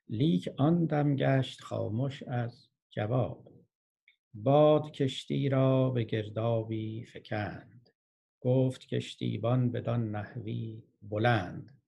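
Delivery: slow, drawn-out narrative verse; poetry recitation. Acted. Teacher telling of the storm in verse, slow recitation. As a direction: let each half-line stretch and settle.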